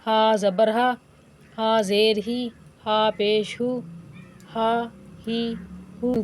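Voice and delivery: put-on clear, measured syllable drill for children; teaching drill. Shown as a demonstration. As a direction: sound out each syllable for the class. (بچوں کو ہجے سکھانے کا انداز)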